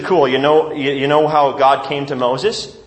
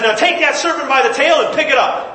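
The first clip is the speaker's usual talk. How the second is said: higher, lifted voice of God giving an order; commanding God voice; 9 semitones higher than usual. Acted. God tells Moses to grab the serpent, higher and commanding. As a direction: speak as God, telling him to trust.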